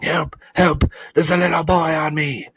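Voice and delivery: high, loud bee in distress; shouting for help. A narrator's reading. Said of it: "lay there shouting".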